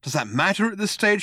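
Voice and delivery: high, frantic retort; shouted. A narrator's reading. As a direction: shout it back in desperation. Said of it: "shouted Arthur".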